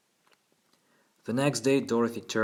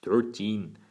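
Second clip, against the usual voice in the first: impish Cockney lad, louder; Cockney boy; 5 dB louder than usual. A narrator's reading. Boy correcting his lawyer on his name, Cockney accent. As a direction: put on a bold boyish Cockney accent. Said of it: "his crisp Cockney accent".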